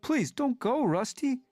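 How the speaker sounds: put-on high, urgent plea from a frightened young cat; mewing in alarm. A narrator's reading. Cat friend pleading with Rusty not to leave, high and alarmed. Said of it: "he mewed in alarm".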